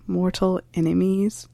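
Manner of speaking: slow, rising on enemies, incredulous; puzzled question. Shown as a demonstration. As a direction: ask it back slowly in disbelief.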